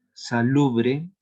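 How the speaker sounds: "Salubre" drawn out slowly with lu stressed; stress on penultimate syllable. Shown as a demonstration. Teacher showing a grave word, slow penultimate stress on "Salubre". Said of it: "qué palabras tienen la entonación".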